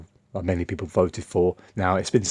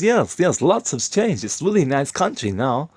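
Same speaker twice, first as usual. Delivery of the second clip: much higher, louder imitation of a Romanian accent, insisting; 8 semitones higher, 4 dB louder than usual. Romanian coworker insisting his country has changed, in a Romanian accent. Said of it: "I'll do it in his accent".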